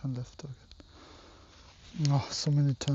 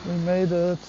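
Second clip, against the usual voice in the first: excited; 6 dB louder than usual. Real, not acted. Arriving at the destination.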